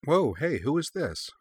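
high, swooping surprised question; wide pitch swings, taken by surprise. A narrator's reading. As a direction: react with a startled, curious lift. Character startled by the photo asks.

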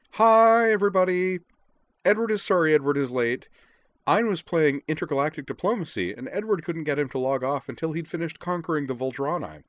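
loud, cheery, high-pitched greeting. A narrator's reading. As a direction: pipe up high and exuberant. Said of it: "declared in a high voice".

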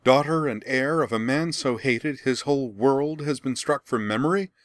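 high, loud, desperate crying out; anguished outcry. A narrator's reading. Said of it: "Azula spun toward her and cried".

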